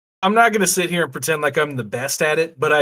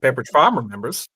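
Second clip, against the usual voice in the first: folksy mock commercial character; put-on advert voice. Riffing on the Milk Wars, put-on advert voice. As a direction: say it as a spoof ad spokesman. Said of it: "The voice you're doing".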